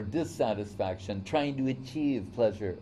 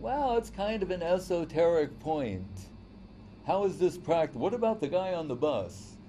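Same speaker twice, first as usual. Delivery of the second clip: higher, lightly voiced doubting listener; skeptic objector; 5 semitones higher than usual. A doubter in the audience questions the point, lightly voiced. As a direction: needle the speaker with a practical objection. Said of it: "So we can't think".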